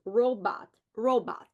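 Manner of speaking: "robot" said as ro then bot, syllables split; syllables said apart. Shown as a demonstration. Teacher sounding out a word for students, carefully. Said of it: "the word is robot".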